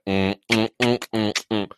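low, short "mm" sounds; string of low imitated grunts; mimicked grunts. Mimics what the movie had.

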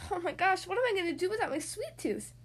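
put-on high, frantic little girl; panicked child. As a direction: wail it in mock panic. Child panicking over lost tooth.

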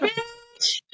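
high, soft sassy "Bitch."; mock sassy jab. A fan mutters at a wrestler after a taunt, high and sassy. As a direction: toss it off with a sneer. Retelling her jab at the show.

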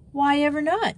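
surprised demand. A narrator's reading. Joey questioning Amy's secrecy, demanding in surprise. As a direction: pitch leaping up in surprise. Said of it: "demanded Joey in surprise".

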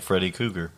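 Krueger said like "Kooger", missing its first r; mispronounced name. Real, not acted. Podcaster naming a horror villain, Krueger mispronounced without its first r. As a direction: drop the r after the K in Krueger.

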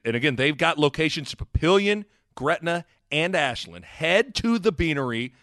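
upbeat sponsor read, deliberately emphatic. Acted. Host pitching the sponsor's new drink, announcer style. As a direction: sell it like a radio announcer.

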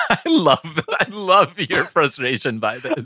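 high giggly voice; laughing. Real, not acted. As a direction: speak through laughter. Laughing at partner.

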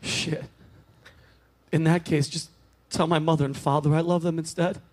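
a frail man saying goodbye from his deathbed; dying old man. Acted. Dying man's farewell.

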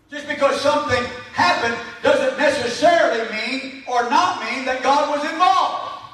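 insistent preacher delivery; emphatic preaching. Acted. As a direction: press the point on the congregation. Preaches with raised force.

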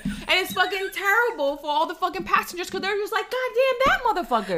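high-pitched, laughing through the curse; can't keep a straight face cursing; laughing rant. Acted. Venting about wheelchair boarding to a friend, laughing high.

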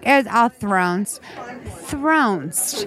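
"thronst" drawn out slowly with an -nst ending; odd pronunciation. Retold or imitated. Host repeating her own odd word, "thronst" pronounced slow and affected. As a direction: stretch "thronst" and finish on a crisp st. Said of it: "the second time I was like".

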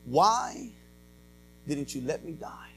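low, hushed plea to God; subdued retold outcry. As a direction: ask it softly, as a retold cry. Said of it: "screaming out to God".

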